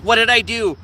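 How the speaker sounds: acted confused pleading; mock panic. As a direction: plead like a hurt, panicked dog. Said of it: "has a panic and is like".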